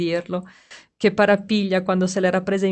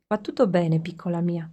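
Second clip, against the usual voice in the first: low tender voice. Acted. Father calms his frightened daughter, low and tender. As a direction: soothe her gently. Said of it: "La voce bassa e affettuosa".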